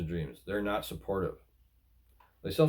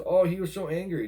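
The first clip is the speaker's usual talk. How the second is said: mock gossip; 8 semitones higher, 3 dB louder than usual. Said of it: "they go to all their friends".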